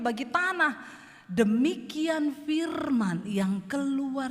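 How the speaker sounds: slow, loud preaching of the verse; preaching scripture. Acted. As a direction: proclaim the verse slowly to the church. Preacher reads scripture aloud. (membaca ayat dengan lantang dan lambat)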